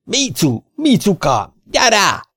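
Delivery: high, loud call for his henchman; a cornered mayor screaming for his man; yelling for help. A narrator's reading. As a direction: shout for Micu in panic. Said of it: "Aztán elordította magát".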